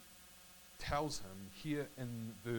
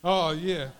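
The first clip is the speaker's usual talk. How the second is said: loud, hearty call back; emphatic agreement; 4 semitones higher, 13 dB louder than usual. Real, not acted. Preacher answering a listener who has been there, loud agreement. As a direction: agree loudly with the heckler.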